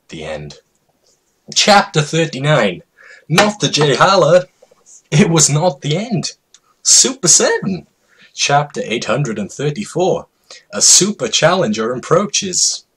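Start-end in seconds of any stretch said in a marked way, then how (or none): 1.5-12.8 high, loud hype-man call; over-the-top announcer voice; hyped announcer. Acted. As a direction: announce it like a fight game. Hyped announcer chapter titles.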